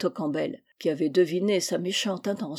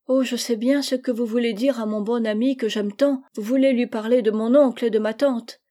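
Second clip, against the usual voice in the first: put-on lightly raised girlish voice, knowing and sly; a hint of a clever little girl; 4 semitones higher, 5 dB louder than usual. Little Gisèle tells her mother she knows, a lightly voiced cunning child. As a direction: play the little girl who guessed the secret, pitch up a bit.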